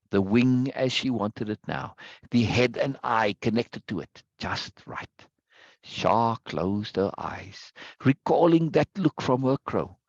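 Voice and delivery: slow, measured story reading with long pauses; unhurried narration, falling away at phrase ends. A narrator's reading. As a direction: read it aloud slowly, dwelling on each phrase. Reads story passage aloud.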